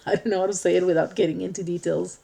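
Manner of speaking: talking through a nervous laugh; awkward laugh at a touchy topic. Real, not acted. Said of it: "this is a nervous laugh".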